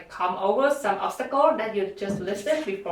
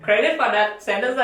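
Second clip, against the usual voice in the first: laughing through the words, a little louder; 4 dB louder than usual. Real, not acted. Student laughing while telling a friend about a lost exam sentence. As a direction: chuckle while admitting the blunder.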